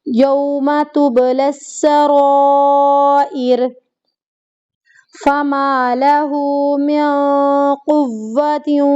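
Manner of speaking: slow, drawn-out Quranic chant with tajweed; Quran recitation. Shown as a demonstration. Teacher reciting verses for students, slow chanted recitation. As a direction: recite each verse carefully, stretching the long vowels.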